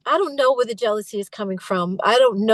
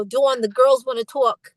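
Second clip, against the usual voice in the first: imitated Boston accent; Boston vowels, lightly put on; slower than usual. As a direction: lightly mimic a Boston manager. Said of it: "it's very Boston".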